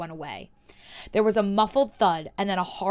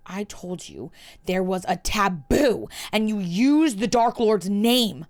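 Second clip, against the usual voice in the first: snarl; 4 dB louder, slower than usual. Acted. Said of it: "Malfoy snarled".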